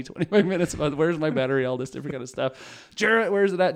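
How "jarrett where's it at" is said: higher, louder call to Jarrett; mock-stern dad calling his son. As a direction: shout across the house to the youngest. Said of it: "ranted about the house".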